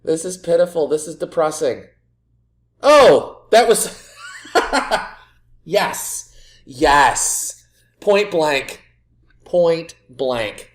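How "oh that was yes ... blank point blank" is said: goal celebration. Real, not acted. Manager cheering his team's goal at last. Team finally scores.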